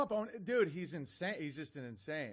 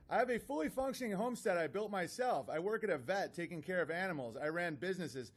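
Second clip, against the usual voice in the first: mocking email reading. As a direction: read his boasts to ridicule them. Reads the critic's email mockingly.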